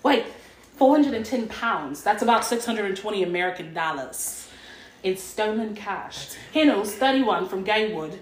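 put-on half-hearted British accent on a news report; amateur, lightly put-on British accent. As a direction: try a British accent and let it slip. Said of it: "too high to speak in a British accent".

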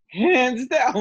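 high, loud, eager yelp of agreement; excited yes. Retold or imitated. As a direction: jump at the offer. Eager reply to job offer.

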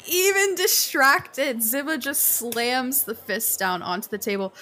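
ordinary talk

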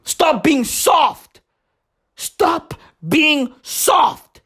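lightly voiced dismissive pundit, last words drawn-out and shouted; scoff, then bark the order out slowly; Candace Owens. Imitating Candace Owens scolding the crying men, mock stern shout. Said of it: "Candace Owens is like".

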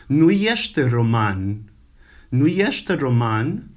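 nu este roman said slowly; slow Romanian sentence. Shown as a demonstration. Teacher drills nu este roman slowly. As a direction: spell out nu este roman word by word. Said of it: "one of the words to say no".

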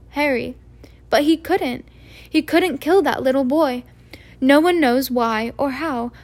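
shaken McGonagall, stumbling over her words; a touch of a trembling voice. Acted. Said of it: "voice trembled".

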